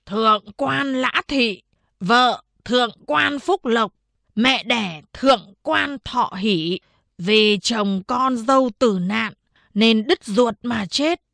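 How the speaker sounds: slow, formal proclamation; official proclamation. Acted. Town head formally declaring the old woman's death. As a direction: declare it slowly like an official decree. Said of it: "tuyên bố".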